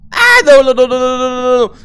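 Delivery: panicked high shrieking no's; being chased. Real, not acted. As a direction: scream no in terror. Ghost hunting him. (pânico gritando ao ser perseguido)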